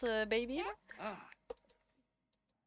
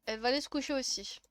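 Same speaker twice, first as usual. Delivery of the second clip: whispering; 6 dB quieter, faster than usual. Acted. Repeats the line softly.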